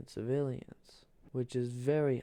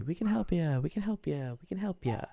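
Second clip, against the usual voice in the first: Morocco voice; 5 semitones higher than usual. Acted. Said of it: "Just like they did to Italy".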